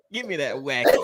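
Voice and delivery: low, half-hearted New Orleans accent imitation. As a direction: try a New Orleans accent, badly faked. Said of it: "I can't do the accent".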